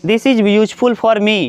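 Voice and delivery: slow, clear model sentence; slow teacher modelling; slow example sentence. Shown as a demonstration. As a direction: spell the example out slowly for the class. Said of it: "अब आप जैसे कहोगे this".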